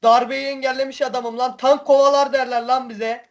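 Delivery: fired-up yelling at pursuers; being chased. Real, not acted. Three tanks chasing him.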